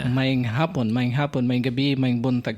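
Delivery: numb lips after dental work; talking through numb lips; numb from the dentist. Real, not acted. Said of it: "my lips is still numb".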